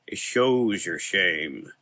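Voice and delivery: slow, otherworldly dark man; slow it down and make him eerie. Acted. Dark man voiced slowly.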